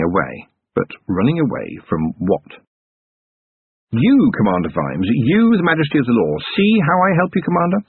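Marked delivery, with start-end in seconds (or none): 3.9-7.8 the Summoning Dark speaking in Vimes's own voice, rising higher; a lightly voiced dark presence mirroring him; taunting inner voice, a touch higher than the narration; eerie inner voice. A narrator's reading. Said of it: "It sounded too much like his own voice".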